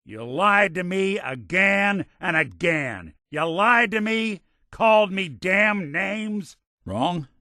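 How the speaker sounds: high, slow, emphatic outrage; angry accusation. Acted. Lied to and called names, confronting the offender angrily. Acted accusation of lying and insults.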